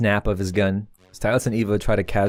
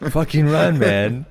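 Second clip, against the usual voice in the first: urgent call; 5 semitones higher, slower than usual. Acted. Acts Stylus urging flight.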